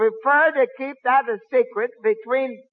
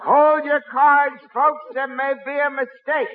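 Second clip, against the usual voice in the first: bingo caller; 3 semitones higher than usual. Acted. Plays along as bingo caller.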